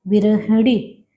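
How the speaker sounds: "बिरहड़ी" repeated firmly, each syllable distinct; careful "बिरहड़ी" with a flapped ड़ी; teacher drilling "बिरहड़ी"; corrected pronunciation. Shown as a demonstration. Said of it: "ये बिरहणी नहीं".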